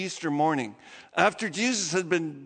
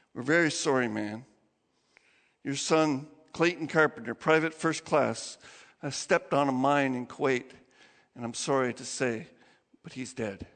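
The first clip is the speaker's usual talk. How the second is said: lowered, hushed officer breaking bad news; solemn official; 6 semitones lower than usual. Pentagon officer delivers death news.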